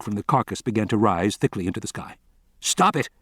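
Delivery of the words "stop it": high, frantic shout; helpless scientist shouting at the flamethrowers. A narrator's reading. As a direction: demand they stop. Carcass being burned, shouting.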